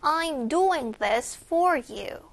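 slow model sentence, "doing" and "for" stressed; deliberate delivery leaning on "doing" and "for". Shown as a demonstration. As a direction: put the weight on "doing" and "for". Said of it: "Doing과 for 강세 주세요".

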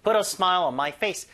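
slow, careful teaching read; slow model sentence. Shown as a demonstration. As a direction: lay it out slowly for the class. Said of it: "그것도 괜찮아요". (천천히 또박또박)

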